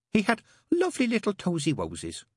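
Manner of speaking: high, put-on baby-talk voice; entranced cooing. Mary remembering the other child, cooing.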